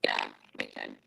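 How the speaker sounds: garbled robotic mic sound. Real, not acted. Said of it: "You sound like you're a robot".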